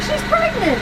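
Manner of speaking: high-pitched mock-horrified protest; retold alarm. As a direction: protest way up high, reenacting your worry. Retold alarm at pregnant sailor.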